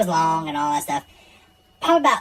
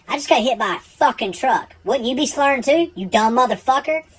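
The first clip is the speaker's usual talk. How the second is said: raised, exasperated comeback; indignant retort; 7 semitones higher than usual. Retold or imitated. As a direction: snap back at the cop. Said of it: "I said".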